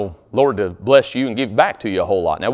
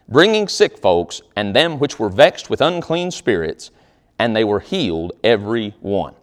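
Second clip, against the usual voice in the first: measured, steady King James reading; scripture reading; 3 dB louder than usual. Acted. Pastor reading Acts to the congregation, measured and steady. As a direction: read the verses with weight.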